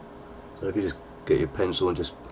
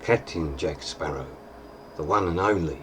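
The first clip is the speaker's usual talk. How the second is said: Jack Sparrow voice; 3 dB quieter than usual. Retold or imitated. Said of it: "he would say".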